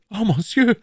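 high, loud delighted exit; delighted Bonacieux. Acted. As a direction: leave in raptures. (entzückt)

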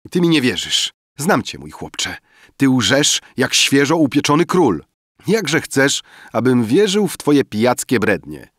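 put-on two drunks bickering and boasting; drunken banter. Drunk friends arguing about the skin. (pijacka sprzeczka, głośniej i wyżej)

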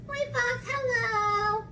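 high sing-song greeting; cheery mouse. Acted. Mouse greeting fox before Gruffalo, high and breezy. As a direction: squeak a breezy hello.

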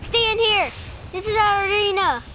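rally them into the arena; calling out. Real, not acted. Kid calling his troops into the arena, loud.

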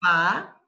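"pa" alone, loud, then a pause; separated syllable. Shown as a demonstration. Teacher shows first way of moving word, separated syllable. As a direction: set "pa" apart as the first piece. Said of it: "That's the first way".

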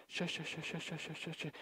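very soft, hushed "shush" chatter; imitated whispering. Imitating obnoxious woman at the center, whispering. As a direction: mimic someone whispering under the breath. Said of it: "always talking like that".

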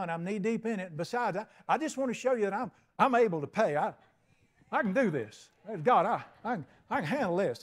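a proud man who won't be helped, pushing back hard; stubborn refusal. Acted. The foolish borrower turning down the bank's offer, stubbornly. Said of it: "You know what stupid would be?".

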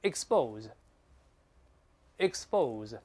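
expose read slowly for repetition; pronunciation model. Shown as a demonstration. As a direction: draw out the second syllable of expose, pausing between takes. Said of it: "我们大声再读一下".

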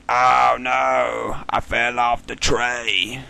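put-on drawn-out southern accent; mock southern accent. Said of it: "southern accent as a, you know, inside joke".

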